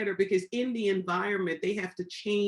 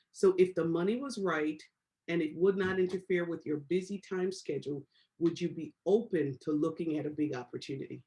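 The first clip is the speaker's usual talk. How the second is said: calm script read; 4 semitones lower than usual. Shown as a demonstration. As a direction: model the pitch patiently for the class. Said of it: "busy people get the job done".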